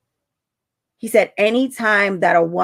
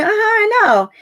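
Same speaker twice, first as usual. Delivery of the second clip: knowing sing-song uh-huh; 13 semitones higher, 3 dB louder than usual. Retold or imitated. Knowing reply to husband.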